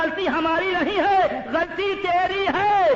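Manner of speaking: high, loud declaimed blame; fiery preaching accusation. Acted. Neighbours blaming the robbed man, fiery accusation. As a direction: hurl the blame back, stretching the last words.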